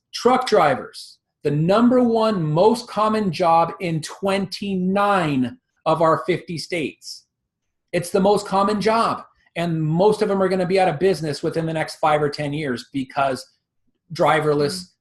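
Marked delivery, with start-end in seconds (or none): 0.1-7.2 spelled out slowly with deliberate emphasis. A speaker tells listeners they will say this slowly; speaking slowly. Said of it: "I'm going to say this slowly".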